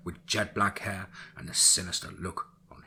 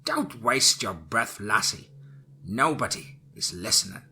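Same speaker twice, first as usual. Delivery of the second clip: mocking old witch; 4 dB louder than usual. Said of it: "Lucinda chuckled, saying".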